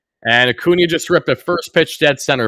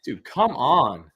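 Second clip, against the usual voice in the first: slow, drawn-out groan of words; fed up, drag it out; weary dude, come on; exasperated; 5 dB quieter, much slower than usual. Real, not acted. Exasperated reaction.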